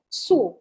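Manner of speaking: "sous" said like "soo", final s silent; pronunciation of "sous". Shown as a demonstration. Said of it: "we pronounce it as sous chef".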